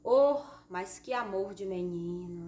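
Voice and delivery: slow, drawn-out OH of admiration; admiring exclamation. Shown as a demonstration. Teacher demonstrating exclamation marks, admiring tone. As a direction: coo it slowly as an exclamation. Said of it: "Indicam admiração".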